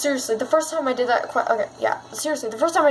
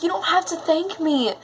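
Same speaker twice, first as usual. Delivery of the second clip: higher, tender mock-tearful reassurance; emotional; 5 semitones higher than usual. Gamer talking to the ghost girl in real life, emotional. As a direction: comfort her, pitch lifted, overcome with feeling. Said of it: "getting really emotional".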